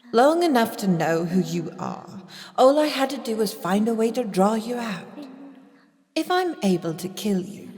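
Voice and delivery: villain reveal. Acted. Unmasked spy gloating to the vampire doctor. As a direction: drop the mask and gloat.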